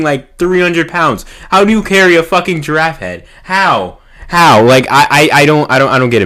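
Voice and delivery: can't believe what he saw; incredulous disbelief. Real, not acted.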